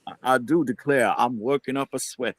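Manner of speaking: a hint of a deep South accent. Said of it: "he just needs to get that deep Southern accent".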